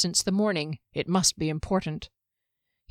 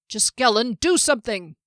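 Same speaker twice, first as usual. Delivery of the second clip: louder urgent call for help; urgent yell; 3 semitones higher, 4 dB louder than usual. Acted. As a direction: shout for help. Derry yells from the muck.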